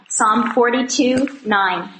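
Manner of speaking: Psalm forty-two nine said slowly, each number spaced out; slow repeat. Shown as a demonstration. Repeating the reference slowly for those still turning pages. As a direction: spell out the reference slowly so they can find it. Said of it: "repeats reference for listeners".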